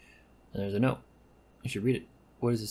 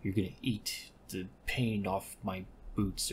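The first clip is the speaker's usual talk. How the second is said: menacing threat; slower than usual. Acted. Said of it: "she's like".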